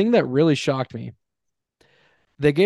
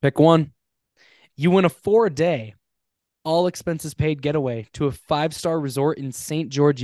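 booming prize announcer; 3 semitones higher, slower than usual. Acted. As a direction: announce the prize like a game show. Game-show style prize offer.

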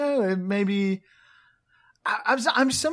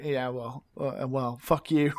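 sneering designers; 5 semitones lower, 5 dB quieter, slower than usual. Retold or imitated.

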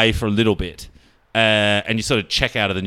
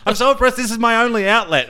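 mock self-pity; 10 semitones higher than usual. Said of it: "I think you're saying, like".

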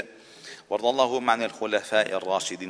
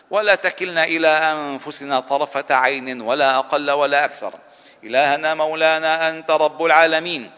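fervent pleading prayer; 7 semitones higher, 9 dB louder than usual. Acted. Imam calling on God before the congregation, impassioned loud plea. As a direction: plead each line as if begging for rescue. Repeated supplication, rising fervour.

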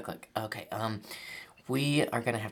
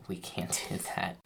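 whispered; 3 semitones lower, 6 dB quieter than usual. Acted. Manager refuses quietly.

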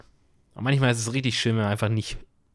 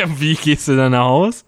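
laughing; 3 semitones higher, 8 dB louder, slower than usual. Real, not acted. Laughing while asking.

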